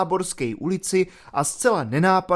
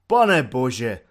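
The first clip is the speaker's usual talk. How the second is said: exclaimed; 3 semitones lower than usual. Acted. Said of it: "zvolal jednoroční dobrovolník".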